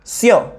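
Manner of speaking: CIO in a single syllable; diphthong as one sound. Shown as a demonstration. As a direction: say Cio in one go, vowels joined. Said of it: "unidas en un solo sonido". (Cio, de una sola vez)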